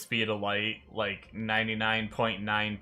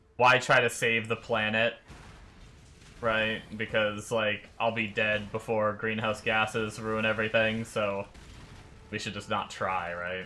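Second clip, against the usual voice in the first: normal talking voice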